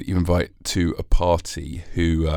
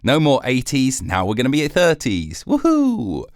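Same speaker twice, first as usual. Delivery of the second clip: giddy Celsius; 4 semitones higher than usual. Retold or imitated. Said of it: "Was he like".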